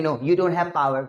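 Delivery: "power" with an unaspirated Indian p; everyday wrong P. Shown as a demonstration. Teacher quoting how we say it, "power" with hard unaspirated p. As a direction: say "power" with no puff of air on the p. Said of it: "हम क्या बोलते हैं".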